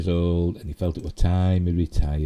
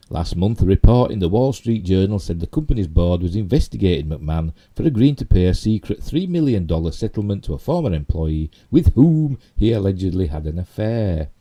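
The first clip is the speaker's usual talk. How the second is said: emphatic article reading; projected news-story reading; 4 dB louder than usual. Real, not acted. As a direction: read the report out with strong stresses. Reads news article aloud.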